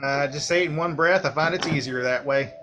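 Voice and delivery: put-on a Southern redneck accent. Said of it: "my particular accent".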